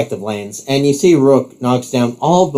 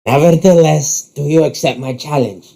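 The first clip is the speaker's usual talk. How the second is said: grand challenge; 4 semitones higher than usual. Acted. Rook challenges his rival to a match, grandly. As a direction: throw down the challenge theatrically.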